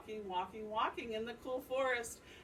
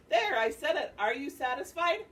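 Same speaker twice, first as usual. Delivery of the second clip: louder, higher mock-innocent taunt; teasing deer; 5 semitones higher, 8 dB louder than usual. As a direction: needle him playfully.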